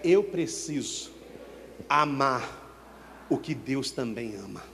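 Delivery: very slow, "Eu preciso" then pause, drawn-out "amar o que Deus também ama"; lead the repeat. Shown as a demonstration. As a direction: dictate it slowly for the congregation to echo.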